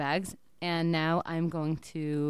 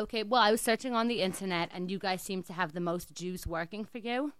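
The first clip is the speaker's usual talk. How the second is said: put-on Jewish accent. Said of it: "I'm gonna be in an accent".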